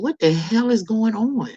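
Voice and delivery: high, drawn-out incredulous question; exasperated disbelief. Acted. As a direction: stretch it out in baffled outrage. Exasperated reaction to how things are.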